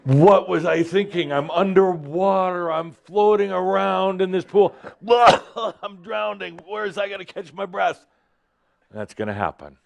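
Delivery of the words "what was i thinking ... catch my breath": hammed-up panicked swimmer; mock panic. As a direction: play someone suddenly gasping underwater. Acting out drowning panic.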